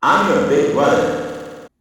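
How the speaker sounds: slow, loud and high robot voice. Retold or imitated. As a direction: stiff robotic announcement, slowed down. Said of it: "in a robot voice".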